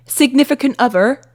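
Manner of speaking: switched British regional accent; different British accent. Shown as a demonstration. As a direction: put on another British accent. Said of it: "That's a different one".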